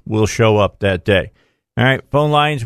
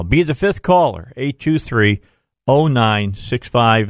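upbeat giveaway call-out; radio contest promo. Acted. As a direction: announce the contest to callers.

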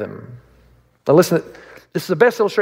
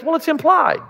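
mock boyfriend; 9 semitones higher than usual. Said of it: "And he says".

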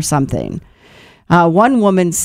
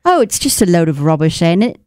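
put-on British accent. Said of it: "I can't do a good British accent".

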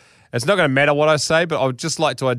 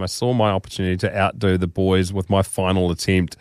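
measured, theatrical read-aloud; deliberate storytelling delivery; story narration; 3 semitones lower than usual. A narrator's reading. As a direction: read it like a grand tall tale.

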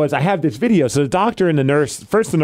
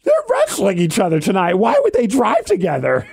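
higher-pitched mock bafflement; retold disbelief; 5 semitones higher than usual. Acting out his own disbelief.

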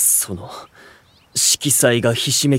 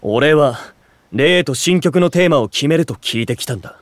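raised, higher insistence; indignant protest; 4 semitones higher, 3 dB louder than usual. Acted. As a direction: object firmly to the intrusion. Protests guests intruding. (憤慨して言い張る)

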